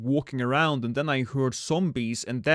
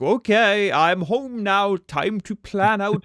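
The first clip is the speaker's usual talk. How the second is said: put-on kid voice; 6 semitones higher, 4 dB louder, slower than usual. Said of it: "I would be like".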